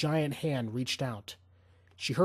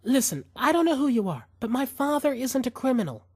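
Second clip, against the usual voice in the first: higher, pleading, trying to sound calm; a woman begging the man holding a gun on her family; scared pleading; 10 semitones higher, 4 dB louder than usual. A narrator's reading. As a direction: beg him to listen, fear showing through. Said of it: "she just sounded scared".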